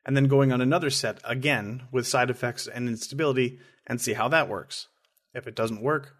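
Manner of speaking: measured, even read-aloud delivery; formal reading with pauses between sentences; reading a prepared statement. Real, not acted. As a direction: read a serious written statement plainly, in your own voice. Reads an absent co-host's prepared statement.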